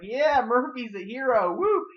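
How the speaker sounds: high, loud celebratory cheer with a woo; mock cheering. Reviewer imitating the group hailing their hero, mock cheering.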